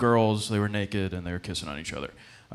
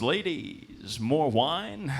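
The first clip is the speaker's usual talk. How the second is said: suave porn guy; 5 semitones higher, much slower than usual. Retold or imitated. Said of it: "he goes".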